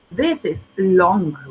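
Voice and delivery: slow, clear "This is long"; slow teacher demo. Shown as a demonstration. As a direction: spell it out slowly for students. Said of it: "Like, for example".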